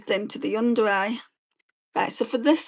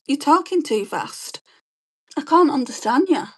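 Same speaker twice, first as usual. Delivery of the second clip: higher-pitched mock complaint; put-on complainer's voice, raised pitch; mimicked complaint; 5 semitones higher than usual. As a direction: imitate people complaining, pitched up. Mimics people complaining about her speech.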